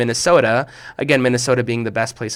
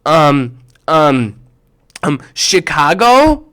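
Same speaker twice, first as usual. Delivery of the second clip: frantic guess; 3 semitones higher, 8 dB louder, slower than usual. Acted. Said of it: "Asad is frantic".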